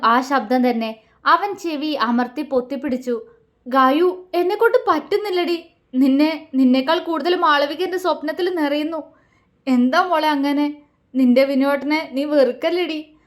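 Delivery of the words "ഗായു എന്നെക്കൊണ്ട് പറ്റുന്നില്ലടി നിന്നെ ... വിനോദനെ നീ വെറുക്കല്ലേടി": pitiful plea. Acted. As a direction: beg her picture not to hate you. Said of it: "ദയനീയമായി ... പറഞ്ഞു".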